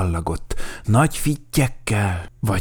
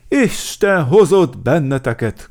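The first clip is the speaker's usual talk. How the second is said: loud, raised hearty greeting; hearty bear chief; returned welcome; 7 semitones higher, 7 dB louder than usual. A narrator's reading. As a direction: greet visitors with gusto. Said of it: "köszönt vissza Medve Medárd".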